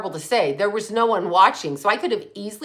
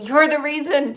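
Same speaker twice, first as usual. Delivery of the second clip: retold screaming; 6 semitones higher than usual. Imitating the woman screaming at her on the trail, mock scream. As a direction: imitate a screamer with a raised pitch. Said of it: "she starts screaming".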